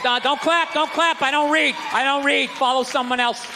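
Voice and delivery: hammed-up churchman telling you not to clap; stern church voice. Church scolding a newcomer.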